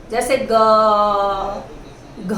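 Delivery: ग and घ held slow, throat buzzing; voiced consonant demo. Shown as a demonstration. Teacher demonstrating voiced sounds to students slowly. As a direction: let ग and घ ring with the vocal cords vibrating. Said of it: "बोलकर देखिए आप खुद".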